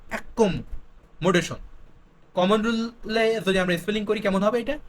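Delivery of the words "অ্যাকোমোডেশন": অ্যাকোমোডেশন drawn out in two parts, ak-kom, mo-de-shon; spelling pronunciation. Shown as a demonstration. Teacher showing students the spelling rule, split spelling pronunciation. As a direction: split অ্যাকোমোডেশন slowly, doubling the k. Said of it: "common rule কেমন".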